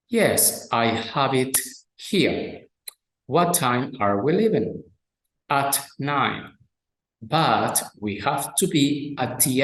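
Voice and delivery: slow, careful English reading of a dialogue; textbook dialogue reading. Acted. Teacher reading a dialogue to students, slow and careful. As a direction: read each line clearly for learners.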